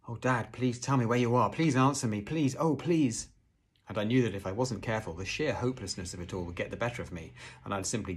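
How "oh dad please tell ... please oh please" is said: higher, louder desperate begging; trembly pleading. A narrator's reading. Boy begging his lost father to answer, trembly. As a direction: beg with a trembly voice. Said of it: "my voice began to go all trembly".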